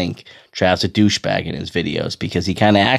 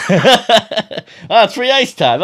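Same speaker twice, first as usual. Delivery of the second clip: much higher, laughing through a mock quote; 12 semitones higher, 4 dB louder, much slower than usual. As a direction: squeak it out while laughing at him. Mocking the kid's excuse.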